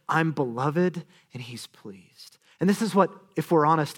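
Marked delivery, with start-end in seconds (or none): 0.1-2.4 tender inner voice. Pretend. Jesus' inner voice imagined.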